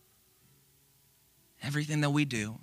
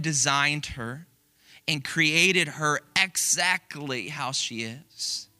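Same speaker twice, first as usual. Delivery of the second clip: mother's blog quote. Retold or imitated. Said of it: "Here's a direct quote".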